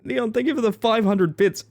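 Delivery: ordinary talk, nothing marked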